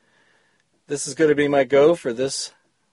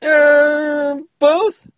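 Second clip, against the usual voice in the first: meek reply; 13 semitones higher, 5 dB louder than usual. Acted. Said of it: "Wardell meekly replied".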